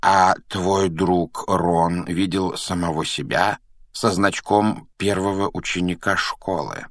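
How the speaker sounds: slow, measured professor; lightly voiced knowing elder; stating, not asking. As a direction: state it as a known fact, unhurried. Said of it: "не спрашивал, а утверждал".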